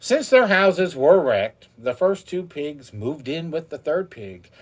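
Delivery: lively read-aloud storytelling; reading a fairy tale to a child; storybook reading. A narrator's reading. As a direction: tell it like a bedtime story.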